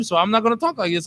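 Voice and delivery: fast talk. Shown as a demonstration. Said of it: "If I gotta talk like this".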